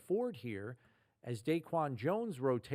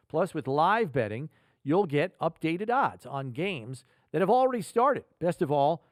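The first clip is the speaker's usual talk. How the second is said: sponsor ad read. Acted. Host reads a sponsor ad.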